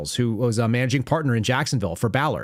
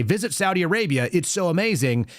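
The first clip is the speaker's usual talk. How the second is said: lightly mock tourism pitch in a higher voice; a touch of paid-spokesperson gushing, pitched up; promotional plug; 6 semitones higher than usual. Paid lobbyist plugging Saudi Arabia, lightly gushing.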